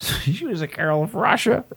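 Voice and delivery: high-pitched, thick mock Russian accent. Comic imitating his speed date, thick Russian accent. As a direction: put on a high female Russian voice. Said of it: "she had a really thick accent".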